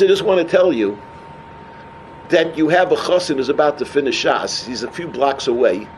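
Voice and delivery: low, gentle reassuring answer; retold reassurance. Visitor promising crying girl a match, retold reassurance.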